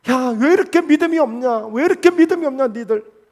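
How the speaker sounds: acted-out reproach; retold rebuke. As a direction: scold them in a mildly exasperated retelling. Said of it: "이렇게 예수님 그들을 책망하셨거든요".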